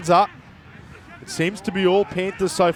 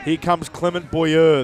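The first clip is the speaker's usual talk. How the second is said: put-on French accent; slower than usual. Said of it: "when I say it in a French accent".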